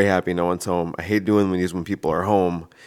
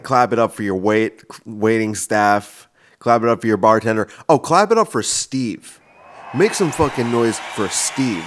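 louder hype-man calls; comedy show host; 3 dB louder than usual. Pretend. Hosting a comedy show, hyping the crowd for Steve. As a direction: work the crowd like an emcee. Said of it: "I'd be like".

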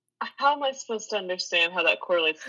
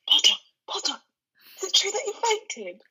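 high-pitched teasing schoolyard jeer; acted-out mocking tease; mocking taunt; 11 semitones higher than usual. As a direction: taunt a rival in a high, needling voice. Acting out Draco teasing Harry.

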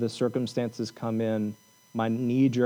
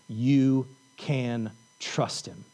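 slow and tender; much slower than usual. Acted. Slow refrain repeated softly.

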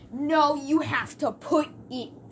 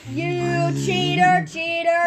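louder accusing cheater chant; sore loser; 3 semitones higher, 4 dB louder, slower than usual. Real, not acted. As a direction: call out the cheater.

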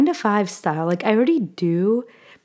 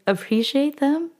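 real emotion catching in the throat; on the verge of crying over her sisters; tearing up; 7 semitones higher than usual. Real, not acted. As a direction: voice rising high as tears come. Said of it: "sorry, I'm starting to cry".

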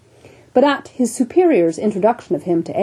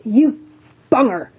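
teasing jovial captain; 4 semitones higher than usual. Acted. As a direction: rib the solemn doctor heartily. Captain mocks surgeon fondly.

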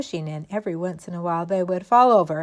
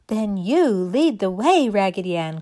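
French doll; 5 dB louder than usual. Acted. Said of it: "cried the French doll".

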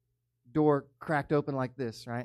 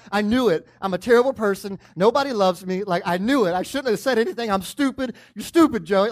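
anxious inner voice; 5 semitones higher, 7 dB louder than usual. Retold or imitated. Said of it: "Like, that's my mind".

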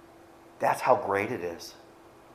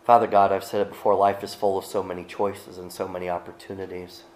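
prayer; 3 semitones lower than usual. Acted. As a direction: pray it out sincerely to God. Leads closing prayer.

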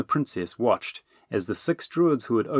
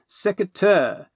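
repeated command; 11 semitones higher, 5 dB louder, slower than usual. Acted. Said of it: "he repeated".

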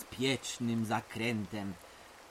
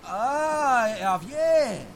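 eager blurt; 9 semitones higher, 7 dB louder, much slower than usual. Acted. Kid eager to answer.

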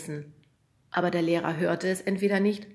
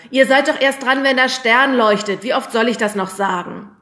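loud, raised exasperated scolding; exasperated calling; 6 semitones higher, 12 dB louder than usual. A narrator's reading. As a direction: scold the wise men loudly and higher. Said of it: "rief der Lehrer".

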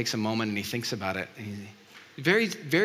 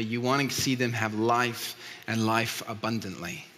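prayer. Real, not acted. Pastor prays before sermon.

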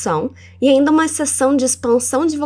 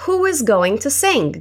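1 slow model line; 2 semitones higher, slower than usual. Shown as a demonstration. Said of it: "Como você diria quem vai cantar?".

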